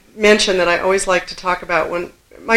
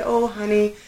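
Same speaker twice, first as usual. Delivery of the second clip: soothing mother; 4 dB quieter than usual. Retold or imitated. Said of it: "she rubbed my back".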